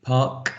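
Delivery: park repeated alone with a clear k at the end; park, ending on a crisp k; final k demonstrated. Shown as a demonstration. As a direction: say park as an example, releasing the final k. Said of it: "K as in park".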